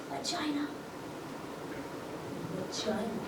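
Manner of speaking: hushed, testing the word VAGINA; soft experimental take on "Vagina"; trying out the word. Shown as a demonstration. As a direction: say "Vagina" very softly, as if sampling it. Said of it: "Doesn't matter how many times you say it".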